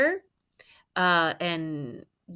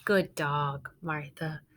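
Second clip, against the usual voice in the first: happy praise; 4 semitones lower, 4 dB quieter, slower than usual. Acted. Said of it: "exclaimed her happy family".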